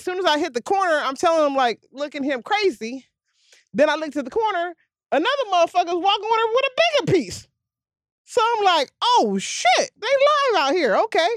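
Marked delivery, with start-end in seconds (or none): 5.1-11.3 mock shock. Retold shock at bigger gun.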